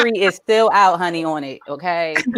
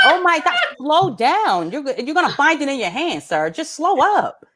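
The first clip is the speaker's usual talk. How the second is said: higher-pitched mock alarm; alarmed warning; 5 semitones higher than usual. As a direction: urge him to ease off, pitch up. Parent calls out to son.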